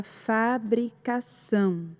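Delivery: fabricação in separated syllables, weight on ÇÃO; stress on ÇÃO. Shown as a demonstration. Teacher shows the strongest syllable, stressing ÇÃO in fabricação. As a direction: draw out the final ÇÃO of "fabricação". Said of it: "A sílaba mais forte".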